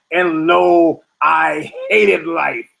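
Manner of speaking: loud "And lo", then a very slow, drawn-out "I hated life"; solemn biblical lament. Retold or imitated. Ecclesiastes' author reading scripture gloomily, mock solemn. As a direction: intone it like a weary prophet. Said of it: "the guy said".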